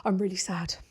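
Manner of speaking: low, halting imitation of a sad boy; imitating tearful child. Son confiding in mum at the car, tearful and halting. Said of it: "very emotional, very tearful".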